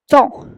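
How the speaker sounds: temps dicho "tan", sin P ni S final; vocal nasal sola en temps. Shown as a demonstration. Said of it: "no se pronuncia la P, tampoco la S". (temps pronunciado "tã", sin consonante final)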